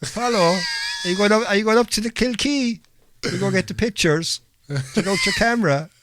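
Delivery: high-pitched, hammed-up Limerick accent; squeaky mock Limerick accent; bad Limerick accent. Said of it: "That is the worst Limerick accent ever".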